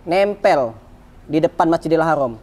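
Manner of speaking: doa pelan-pelan bernada rendah; berdoa. Retold or imitated. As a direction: tirukan permohonan khusyuk, nada diturunkan. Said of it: "Saya berdoa lagi". (memanjatkan doa dengan nada rendah)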